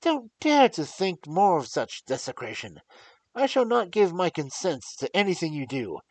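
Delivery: loud, high, raging defiance; furious protest. Acted. Young lord furiously forbids the doctor to touch the grave. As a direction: rage at him with full force. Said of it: "in a storm of passion".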